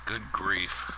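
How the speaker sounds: yawning through the words; sleepy yawn while speaking. Real, not acted. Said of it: "As I say while yawning".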